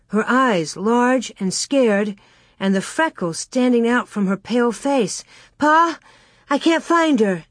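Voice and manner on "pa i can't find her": put-on high, anxious child's voice; worried child. A narrator's reading. Scared Carrie telling Pa her sister is missing, worried. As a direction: report it upset, pitched up.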